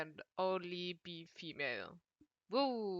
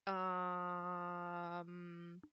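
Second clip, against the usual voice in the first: loud excited; 8 dB louder than usual. Real, not acted. Loud excited streamer reaction.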